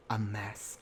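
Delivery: muttered dismissal; hushed verdict. Real, not acted. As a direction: drop it low and quiet, under the breath. Repeated verdict, first take soft.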